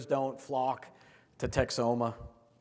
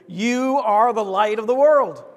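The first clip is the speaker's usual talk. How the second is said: louder and slow, every word meant; with enthusiasm and meaning; 6 semitones higher, 10 dB louder than usual. Shown as a demonstration. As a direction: declare it slowly with conviction. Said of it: "say it with enthusiasm and meaning".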